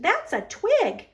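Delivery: high, slow exclaim; a child's disbelieving cry. A narrator's reading. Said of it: "Franklin exclaimed".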